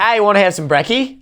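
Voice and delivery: imitating Australians. Podcaster mimicking Australians shortening their words, mock Australian accent. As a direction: put on a light Aussie voice. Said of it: "they're like".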